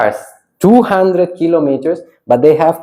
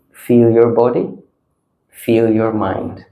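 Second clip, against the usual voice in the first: calm guidance; 3 semitones lower than usual. Real, not acted. Guiding group to notice calm.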